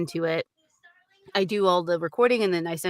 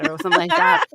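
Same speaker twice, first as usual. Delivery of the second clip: very high, louder put-on voice; character catchphrase voice; 11 semitones higher, 5 dB louder, faster than usual. Shown as a demonstration. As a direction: pitch it way up, a cartoonish character. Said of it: "that I could remember in the voice".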